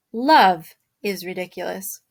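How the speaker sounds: hushed whisper, secretive. Shown as a demonstration. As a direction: breathe it like a secret. Teacher whispers a key line.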